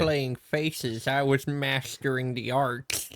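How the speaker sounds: lightly voiced nerd, drawn out and slow; a hint of a slow, smug nerd; nerdy kid. S2 mocks Kurz as nerdy Korax, lightly voiced nerd. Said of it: "he's like the nerdy kid".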